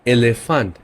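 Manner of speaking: এলিফ্যান্ট said 'eh-leh-FANT'; German এলিফ্যান্ট, with 'eh' for each E; German pronunciation. Shown as a demonstration. Teacher gives an example for E, German এলিফ্যান্ট as 'eh-leh-fant'. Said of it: "এটা হবে এ".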